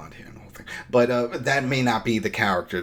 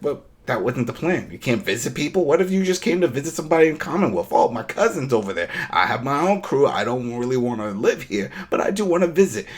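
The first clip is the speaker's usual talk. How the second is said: higher, louder, rushing protest; mock indignant protest; 4 semitones higher, 5 dB louder than usual. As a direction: plead your case, amazed and fast. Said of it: "It's like".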